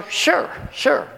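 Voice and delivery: high, uneasy yes; nervous agreement. Retold or imitated. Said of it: "Yellow streak shooting up my back".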